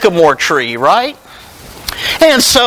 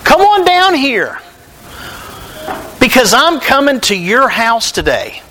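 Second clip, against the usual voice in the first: higher, friendly call up into the tree; lightly voiced Jesus, calling Zacchaeus down; a hint of Jesus inviting himself to supper; voicing Jesus calling up; 5 semitones higher than usual. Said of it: "And he says".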